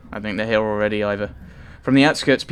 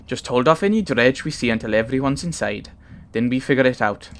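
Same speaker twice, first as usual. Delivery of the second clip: a light Welsh lilt for the giant Varl; Welsh accent; 2 semitones higher than usual. Acted. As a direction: read Ivar's lines in a gentle Welsh accent. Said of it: "he's Welsh".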